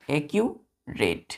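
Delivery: एक्यूरेट drawn out slowly and softly; slow model word. Shown as a demonstration. Teacher modelling a word for pupils, slow. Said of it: "क्या होगा बच्चों".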